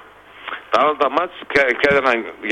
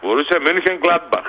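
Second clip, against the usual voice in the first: high, slow, showy German pronunciation; German accent; 6 semitones higher, slower than usual. Shown as a demonstration. Tipster proving his German pronunciation to the host, German accent. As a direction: say Mönchengladbach slowly in a proud German accent. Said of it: "Θέλω και γερμανική προφορά".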